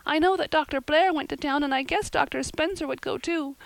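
put-on high, loud upset girl; rising into a despairing cry; upset girl pleading to her friend; distraught. A narrator's reading. Diana distraught.

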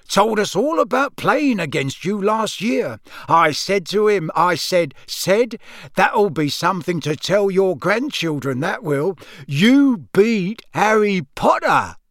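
proud father, high-pitched and hearty; boastful Amos Diggory. Acted. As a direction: brag about your son, stretching the punchline.

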